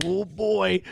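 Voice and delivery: mock-eager inner thought, slow and rising in pitch; pretend salivating eagerness. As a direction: play barely contained greed, stretching the words. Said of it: "the Jewish side of me isn't fucking salivating right now thinking".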